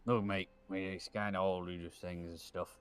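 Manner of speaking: pirate mate voice. Acted. Answering his cohost's Sparrow tease in mock pirate voice. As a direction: slur it like a tipsy pirate captain.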